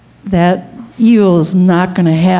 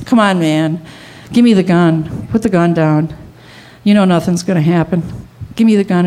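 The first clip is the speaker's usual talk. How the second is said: gentle; 2 semitones lower than usual. Retold or imitated. Ron talking gunman into handing over gun, gentle coaxing. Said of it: "talks gentle".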